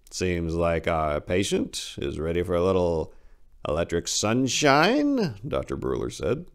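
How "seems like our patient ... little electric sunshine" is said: fake cheer. Doctor greeting the strapped-down patient with fake cheer. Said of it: "His smile was so fake".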